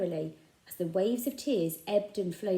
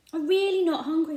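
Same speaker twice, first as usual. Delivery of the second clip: put-on high, louder boy's protest; insistent boy; 10 semitones higher, 8 dB louder than usual. A narrator's reading. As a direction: push the food away. Joe insisting.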